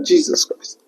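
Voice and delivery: breathless whispered gasp; shocked whisper of disbelief; stunned. Retold or imitated. Stunned reaction to her words.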